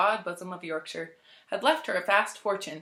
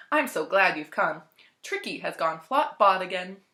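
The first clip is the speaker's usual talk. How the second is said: anxious; 4 dB louder than usual. Acted. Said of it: "looking at her pet anxiously".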